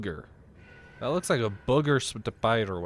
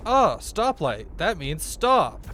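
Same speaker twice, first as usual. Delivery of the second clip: groggy tired voice; 5 semitones higher, 4 dB louder, slower than usual. Retold or imitated. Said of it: "I was just so tired that I was like".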